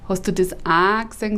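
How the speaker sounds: said up in the nose, nasal Bavarian; nasal Regensburg way. Shown as a demonstration. Comedian demoing the nasal Regensburg dialect, said through the nose. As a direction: put the vowels up into the nose on „Hast du das A gesehen?“. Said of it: "sagen wir oben quasi an der Nase".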